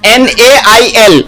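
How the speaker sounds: letters एन ए आई एल spelled one by one; slow spelling out. Shown as a demonstration. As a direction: spell it slowly for the class. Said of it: "उसके बाद नेल".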